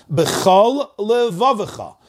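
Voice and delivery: b'chol held slowly, then levavicha apart; space between words. Shown as a demonstration. Teacher giving an example, slow gap between b'chol and levavicha. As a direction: separate the two L's of b'chol levavicha. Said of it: "to make space".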